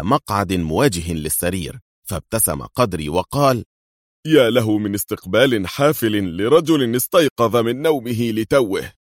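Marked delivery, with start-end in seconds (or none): 4.3-8.9 groggy jokey big man just woken; Qadri's voice. A narrator's reading. Woken man at gunpoint, higher jokey voice.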